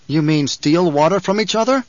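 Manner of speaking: Paul outraged at stealing water. Acted. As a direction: let the boy's outrage break through. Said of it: "his voice betrayed his emotion".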